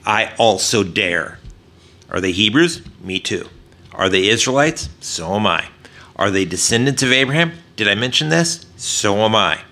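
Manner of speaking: mildly mocking questions with understated, deadpan answers; sarcastic boasting. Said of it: "Paul begins his sarcastic boasting".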